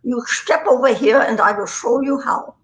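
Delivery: imitated German accent, lightly bossy; retold line in a German accent. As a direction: instruct in a put-on German accent. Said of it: "I don't know a German accent".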